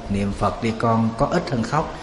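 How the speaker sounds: gentle hushed coaxing. Shown as a demonstration. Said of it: "Bác chỉ nói nhỏ thôi".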